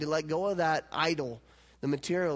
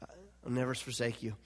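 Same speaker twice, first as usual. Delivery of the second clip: hushed, unvoiced whisper of a promise; tender whisper, much softer; 7 semitones lower, 8 dB quieter than usual. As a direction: breathe it like a secret vow.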